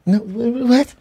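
mock baffled, voice jumping up; can't believe they'd want to fight; incredulous. Retold incredulous reply at bar.

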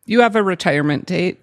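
dry deadpan quip; wry joke. Real, not acted. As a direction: say it with a wry edge. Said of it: "I'm being facetious".

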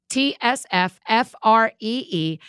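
"T S F F R E E" spelled letter by letter, slow; spelled out slowly. Shown as a demonstration. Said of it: "You get it?".

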